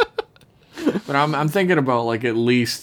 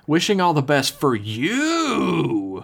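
mock crying; 4 semitones higher, much slower than usual. Mock-tearful reading of email sign-off.

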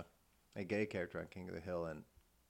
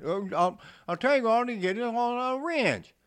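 higher, loud rambling redneck; redneck welder; 13 semitones higher, 13 dB louder than usual. Retold or imitated. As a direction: rattle it off like a Kentucky welder. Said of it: "Boomhauer type guy".

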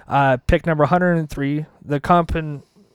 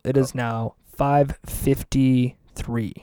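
professional announcer voice; 5 semitones lower, 6 dB quieter, much slower than usual. Shown as a demonstration. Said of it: "We're gonna be really professional".

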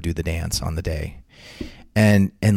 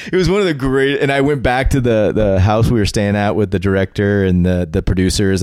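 laughing talk; 3 semitones higher, 5 dB louder than usual. Real, not acted. Laughing through words.

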